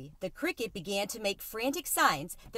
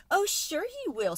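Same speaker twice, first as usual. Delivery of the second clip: high squeaky mouse reassurance, much higher; 10 semitones higher than usual. Acted. Mouse reassuring the worried cricket, high squeak. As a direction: squeak it out brightly. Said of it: "squeaked Tucker Mouse".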